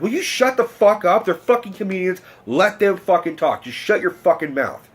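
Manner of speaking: mild telling-off of a heckler; retold angry snap. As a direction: imitate a fed-up audience member snapping. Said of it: "snaps and he's like".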